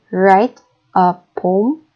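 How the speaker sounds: slow, WRITE stressed. Shown as a demonstration. Teacher reading slowly for students, stress on write. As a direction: draw it out, lean on write. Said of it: "with a single breath".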